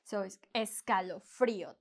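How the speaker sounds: escalofrío with the pitch going up on the stressed í; accent mark stress. Shown as a demonstration. Teacher showing students the rise on escalofrío's accented í. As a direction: lift your voice on the í of escalofrío. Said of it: "we're gonna go higher there".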